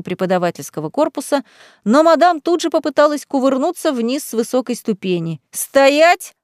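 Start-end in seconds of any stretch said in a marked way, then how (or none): 5.5-6.3 sharp command. A narrator's reading. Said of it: "приказал Грэм".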